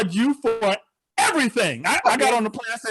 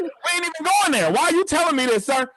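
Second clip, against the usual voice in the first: exasperated passenger; 5 semitones higher than usual. Retold or imitated. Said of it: "It's like".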